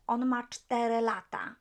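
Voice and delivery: On ma cztery lata said clearly in Polish, ma stressed; model answer. Shown as a demonstration. Teacher giving the Polish answer to the class. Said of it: "Now, he is four".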